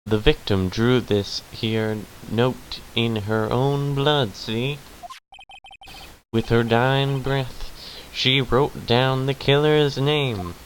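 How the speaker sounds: put-on southern-accented detective, pitch climbing. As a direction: lay out the evidence in a southern accent.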